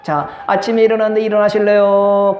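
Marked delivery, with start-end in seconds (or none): 1.2-2.4 gentle wake-up. Shown as a demonstration. Pastor demonstrating the kind morning greeting, slow and gentle. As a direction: coax them awake kindly. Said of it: "이 말이 좋아요".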